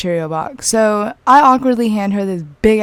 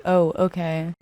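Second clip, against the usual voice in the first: softer, understated quoted reply; straight-up, unfazed; 3 semitones lower, 5 dB quieter, slower than usual. Retold or imitated. Quoting what friend literally said, straight-up unfazed. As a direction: accept it quietly, no awkwardness. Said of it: "It was just straight up".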